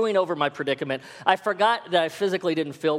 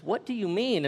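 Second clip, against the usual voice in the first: imitated taken-aback question, higher; mildly shocked; 4 semitones higher than usual. Wife answers husband's outburst, mildly shocked. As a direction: play mild shock at being accused. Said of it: "she was pretty shocked".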